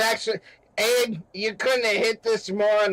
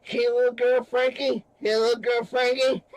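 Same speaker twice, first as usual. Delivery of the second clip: mocking, higher-pitched taunt; raised, goading gangster quote; taunting movie gangster; 4 semitones higher than usual. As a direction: imitate a movie gangster jeering at his victim. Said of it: "as the guy's moaning, he's like".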